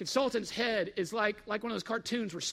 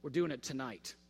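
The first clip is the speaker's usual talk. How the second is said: mild angry resolve; 8 semitones lower, 6 dB quieter than usual. Retold or imitated. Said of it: "he got real mad".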